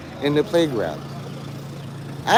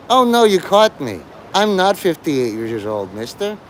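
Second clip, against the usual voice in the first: mock caught liar. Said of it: "the feigned outrage".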